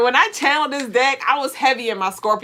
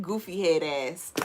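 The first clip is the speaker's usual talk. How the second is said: mock put-down; 7 semitones lower, 9 dB quieter than usual. Mock insult after cartoon goodbye.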